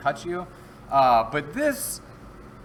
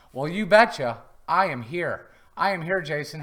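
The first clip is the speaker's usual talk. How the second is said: twin brother voice; 2 semitones higher, 3 dB louder than usual. Pretend. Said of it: "that's not really my twin brother".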